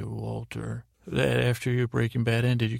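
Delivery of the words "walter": Mike's quiet Walter. Retold or imitated. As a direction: say Walter quietly, dead calm. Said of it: "love to hear every time he would say".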